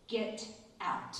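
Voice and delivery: sharp whispered "Get out.". Retold or imitated. Teacher whispering at the principal to leave, unvoiced whisper. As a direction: hiss it under your breath. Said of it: "in a whisper".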